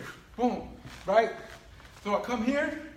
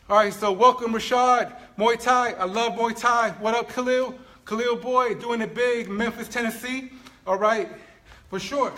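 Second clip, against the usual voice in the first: louder, upbeat shout-out across the gym; loud happy greeting; 6 dB louder than usual. Real, not acted. Coach calling out to arriving students, loud and excited. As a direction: hype them up as they walk in.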